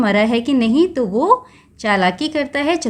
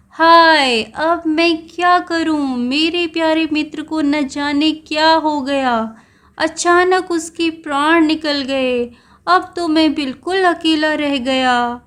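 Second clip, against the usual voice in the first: a turtle's put-on wail, pitched higher; mock grief for a friend who is pretending to be dead; fake lament; 4 semitones higher, slower than usual. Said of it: "नाटक करता है कि उसका दोस्त मर गया". (नाटकीय झूठा विलाप)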